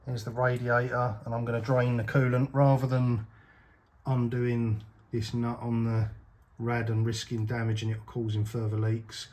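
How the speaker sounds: speaking while lying under the car. Real, not acted. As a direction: talk flat on your back under the car. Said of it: "I'm under the car".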